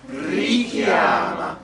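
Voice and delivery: loud, drawn-out "Richiama" with one short K; single K. Shown as a demonstration. Coach leading singers in the repeat, single K in "Richiama". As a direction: project "Richiama", stretching vowels, not the K. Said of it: "Be careful not to double the k".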